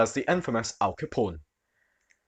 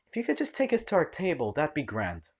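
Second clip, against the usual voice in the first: dripping with malice; 4 semitones higher, 5 dB quieter than usual. Acted. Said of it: "Her voice was dripping with malice".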